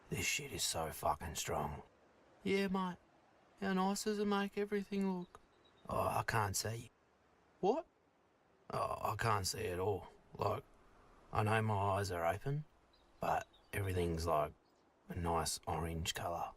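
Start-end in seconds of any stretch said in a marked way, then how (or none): 0.1-1.7 a dinosaur suddenly remembering who he is; Donny the dinosaur. Acted. 5.9-16.4 a dinosaur suddenly remembering who he is; Donny the dinosaur. Acted.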